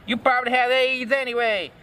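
high-pitched mock angry shout. A narrator's reading. Girl rejects Draco's pleading, shouting at him. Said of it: "I shouted".

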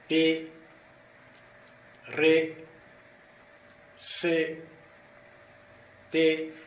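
each letter name called out slowly; reciting Russian letter names. Shown as a demonstration. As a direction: spell out the alphabet letter by letter. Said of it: "Aqui nós temos". (recitando os nomes das letras russas, uma a uma)

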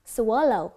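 "swallow" ending in a clear "oh"; loud, careful "swallow", O as in go; long O ending. Shown as a demonstration. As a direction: punch out "swallow" with a rounded final O. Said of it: "Âm O".

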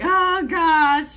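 high, loud burst of exasperation; exasperated exclamation. Acted. Vlogger acting out losing a favorite song, loudly exasperated. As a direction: throw it out as a loud, frustrated cry. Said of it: "you're just like".

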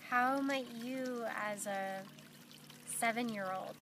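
unhurried meditation guide with long pauses; guided meditation. Acted. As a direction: gently lead them inward, leaving long silences between phrases.

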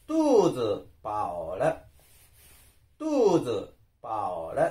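careful Chinese pronunciation of トゥーズパオラ; Chinese demonstration. Shown as a demonstration. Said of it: "中国語で言うと".

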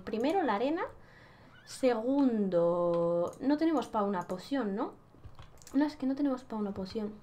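normal talking voice

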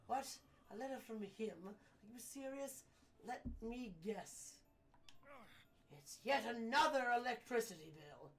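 theatrical disbelief from a lordly gentleman; grandly fed up with the courier's news; exasperated client. Acted. Andros reacts to the bill.

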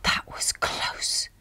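slow breathless whisper; whispered relief. Acted. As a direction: whisper it, still shaken. Just escaped the car.

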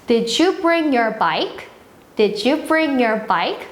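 very slow, clear teacher demo; slow model sentence. Shown as a demonstration. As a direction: stretch each word out for the kids. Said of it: "그냥 바이크 해도 돼요". (아주 천천히 또박또박)

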